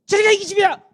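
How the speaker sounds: high, loud pretend yell; mock angry shout. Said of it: "그래서 제가". (장난스럽게 과장한 고함)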